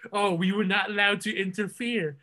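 mock-solemn quote of a movie line; mocking trailer line. Podcaster mocking the Eternals trailer to co-hosts, mock-solemn. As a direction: send up the trailer's dialogue. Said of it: "we've been mocking it".

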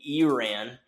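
Iran as ee-RAN, with an EE start; correcting pronunciation, Iran begun with EE; Iran said correctly. Retold or imitated. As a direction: say Iran starting EE, rising at the end. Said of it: "say it right, guys".

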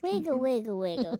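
high squeaky sped-up voice; chipmunk voice. Pretend. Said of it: "not as funny there".

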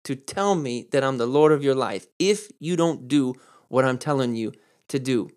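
slow, pointed. Retold or imitated. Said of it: "He's basically saying".

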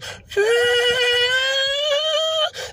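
long high whirring electric whine; Tesla sound imitation. Mocking the Tesla behind him on the highway, high electric whine. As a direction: hum it high and thin like a Tesla pulling up. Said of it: "that's how that shit sounds".

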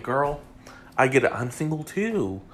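sassy put-on Southern accent, lilting up and down; light Southern-belle accent, girl to girl; a singer's Southern accent. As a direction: reassure a girlfriend in a mock Southern accent. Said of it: "took on the singer's Southern accent".

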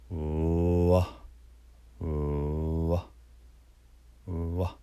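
"うわ" starting on a held う, opening into あ; 唇を絞って. Shown as a demonstration. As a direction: purse the lips on う, then release "うわ". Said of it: "こう絞って". (「うわ」のうを伸ばしてからあへ)

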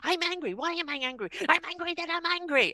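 mock self-talk. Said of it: "And it's like".

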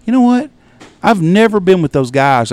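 retold retort. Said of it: "and I'm like".

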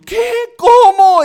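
shrieking high what, how; shocked disbelief. Retold or imitated. Stunned mentor hearing the father died, shocked shriek. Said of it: "Estaba consternado".

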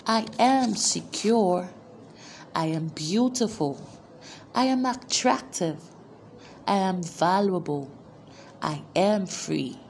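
each I am line delivered as its own proclamation, pitch swinging from line to line; preaching declarations. Acted. Preacher leading the congregation in I am declarations, proclaiming. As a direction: proclaim every line for the crowd to repeat.

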